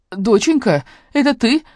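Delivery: worried mom shouting down the phone; mother calling out. A narrator's reading. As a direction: call out to your daughter over a bad line. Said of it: "крикнула мама".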